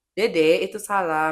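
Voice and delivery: put-on slow, firm teaching voice to a small child; firm slow correction. Shown as a demonstration. Mother teaching her little one it is wrong, slow and firm. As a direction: say it slowly, like correcting your toddler. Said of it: "Saya ajarin".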